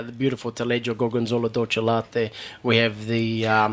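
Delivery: cheese names in a real Italian accent. Real, not acted. Chef listing the cheeses on his menu, Italian accent. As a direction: roll out the names with Italian pronunciation. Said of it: "I love that accent".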